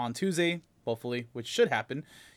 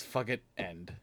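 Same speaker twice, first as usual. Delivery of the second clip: low, muttered, fed up; grumpy dismissal; 7 semitones lower, 8 dB quieter than usual. Retold or imitated. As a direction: mutter it like you're done. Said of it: "and says".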